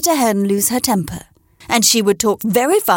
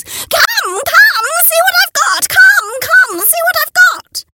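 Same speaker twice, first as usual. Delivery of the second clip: high, loud excited hen calls; loud high cackling call; 6 dB louder, slower than usual. A narrator's reading. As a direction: shout it across the farmyard. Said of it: "calling out at the top of her lungs".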